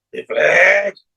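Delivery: nasal demo. Shown as a demonstration. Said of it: "if I have to speak reflex from nose".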